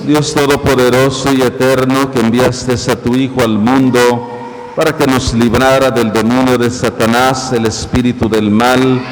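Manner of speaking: solemn, measured priestly prayer; liturgical prayer. Acted. Priest prays aloud.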